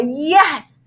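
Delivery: high excited trill; girl gushing over found mittens, high trill. Acted. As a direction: gush it out in a bright trill. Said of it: "trilled Victoria".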